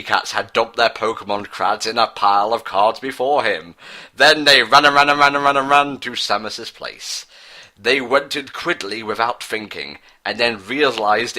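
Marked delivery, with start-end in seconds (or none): 4.1-7.3 breathless excited narration. A narrator's reading. Narrator building frantic running.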